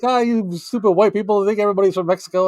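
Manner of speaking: high-pitched mock indignation; mock pissed off. Latino coworkers complaining at his teasing, mock pissed off. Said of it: "they would get pissed off".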